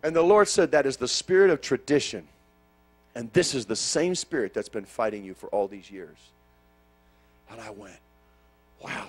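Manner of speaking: loud, rising preacher's cry; full-force preaching. Acted. Preacher lifts the church into a loud climactic prayer. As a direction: build the congregation up to a shout.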